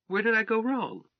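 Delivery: high, loud bewildered question; baffled. Acted. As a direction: cry out in disbelief. Wife baffled by her result.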